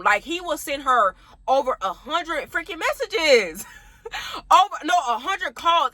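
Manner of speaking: slow, laughing through the words; laughing disbelief. Real, not acted. Telling friends about ex's hundred messages, laughing. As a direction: laugh at how ridiculous it was.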